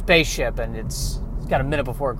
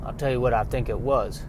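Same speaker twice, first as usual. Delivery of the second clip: a soft, lightly Southern farm wife voice; 2 semitones lower, 7 dB quieter than usual. Acted. Farm wife telling her husband about the unicorn, softly, in a light Southern accent. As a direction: hush it like a worried country wife, lightly Southern. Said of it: "has a southern bent".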